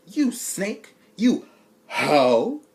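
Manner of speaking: loud, lightly voiced angry Joker; mock accusation. Joker accusing Marcus by text, mock angry. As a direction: spit the insult.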